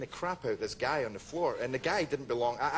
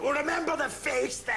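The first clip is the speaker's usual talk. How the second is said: retold angry retort; 10 semitones higher than usual. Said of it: "I was really angry".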